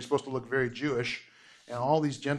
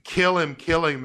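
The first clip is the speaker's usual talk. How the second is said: imitating the mob's cry, a touch louder; mild mock yell of an angry crowd; 2 semitones higher, 5 dB louder than usual. Teacher voicing the Jerusalem mob, mild mock yell.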